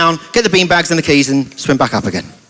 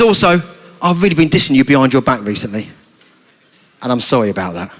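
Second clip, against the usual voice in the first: sheepish apology; 7 semitones lower than usual. Acted. Sheldon confesses and apologises.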